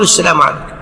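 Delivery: follower's low response; follower's salam. Shown as a demonstration. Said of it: "أنت تقول".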